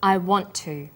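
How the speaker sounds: "want to" with the t pronounced only once; single linked t. Shown as a demonstration. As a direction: run "want to" together on one held t. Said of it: "The t sound is pronounced only once".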